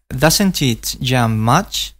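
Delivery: "doesn't" stressed, "it" weak, slow; slow model with "doesn't" strong and "it" light. Shown as a demonstration. Teacher shows the class where the stress falls, slowly. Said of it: "Observa la pronunciación de esto".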